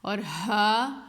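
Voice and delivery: ہا drawn out slowly from the chest; chest sound. Shown as a demonstration. Teacher reminding students ہا comes from the chest, slow. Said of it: "سینے میں سے ادا ہوتی ہے".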